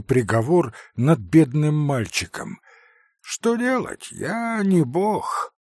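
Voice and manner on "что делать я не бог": offhand, slow and a bit lofty; careless yet imposing. A narrator's reading. Doctor to begging captain, offhand imposing. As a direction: brush it off with practised authority. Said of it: "небрежным, хотя и привычно внушительным голосом".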